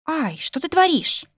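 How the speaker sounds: startled cry. Acted. Pinned down by her husband.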